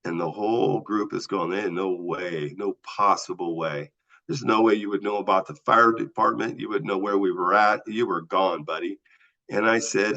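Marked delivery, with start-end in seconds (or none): 1.5-9.0 crew voice. Retold or imitated. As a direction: drag out their flat disbelief. Whole crew answers in chorus.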